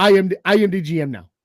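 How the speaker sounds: fast, lightly voiced pirate boss; hint of a hijacker taking over; Captain Phillips pirate. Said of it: "What's that guy from, uh, Captain Phillips?".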